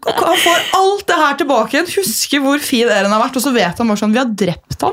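real, high-pitched and emotional; close to tears. Real, not acted. Fan retelling a friend's death to co-hosts, nearly crying. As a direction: retell it while almost starting to cry. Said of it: "jeg begynner nesten å gråte".

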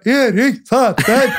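slow, drawn-out shouted name, laughing; hammed-up yell with a laugh in it; mock yell. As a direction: holler it from the back table. Friend yelling names at awards.

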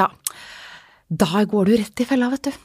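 smug know-it-all therapist, mildly mocked; a hint of a smug therapist lecturing; irritating voice. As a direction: lightly put on a preachy, annoying tone. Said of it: "Sa han med sånn irriterende stemme".

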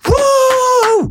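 very high, long whoop; imitated crowd cheer. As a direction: cheer like a whole relieved audience. Publikum jubler når bråkmakerne kastes ut. (langt, lyst jubelhyl)

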